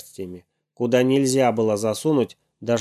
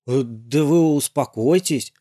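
calming; 3 semitones higher than usual. Acted. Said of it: "сказал приёмщик".

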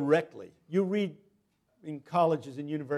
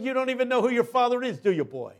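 loud, higher, commanding call; booming preacher; 9 semitones higher, 7 dB louder than usual. Retold or imitated. Big preacher stops the boy after service, booming. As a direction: boom it at the boy from above.

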